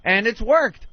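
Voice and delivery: a lightly voiced scheming burglar; scheming crook. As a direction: plot like a lazy burglar. Voicing criminals' thinking.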